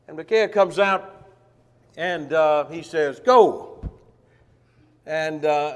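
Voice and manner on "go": mock-enthusiastic shout, high and loud. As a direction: toss it out loud, mocking the king. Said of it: "he's just mocking him".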